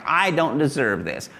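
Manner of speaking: light whine of self-pity; mock whiny complaint. Pastor warns how not to sound, faint whine. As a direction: sound faintly sorry for yourself. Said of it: "don't sound like".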